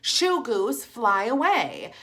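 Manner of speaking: high, loud shoo, stretching fly away slowly; yelling at goose. Retold or imitated. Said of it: "yelling at it".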